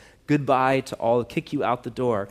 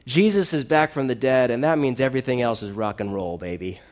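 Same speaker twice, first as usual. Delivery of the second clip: hammed-up London accent, punchy; thick London accent; 5 dB louder than usual. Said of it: "in, like, a thick London accent".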